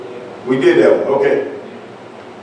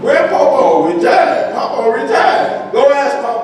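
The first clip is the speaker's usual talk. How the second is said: high-pitched mimicry of his family; imitated family chatter; 8 semitones higher than usual. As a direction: lightly act out relatives, pitched up. Voicing family sending kids to Papa.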